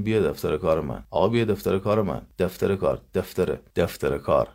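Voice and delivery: «بیا» slurred to «بیه», «دفتر کار» rushed and repeated; mock sloppy «آقا بیا دفتر کار من» fast and mushy; imitating careless speech. Teacher imitates people who speak carelessly.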